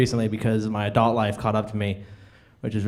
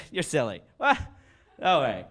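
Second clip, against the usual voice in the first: lightly voiced bashful dog; a hint of excitable talking dog; 3 semitones higher than usual. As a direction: play a coy pup giving in. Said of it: "my impersonation of a dog".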